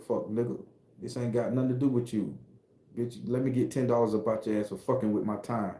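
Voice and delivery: quiet, hard street threat; street gangster talk. Shown as a demonstration. Acting out a robbery in tough street talk. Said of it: "This is how we talk".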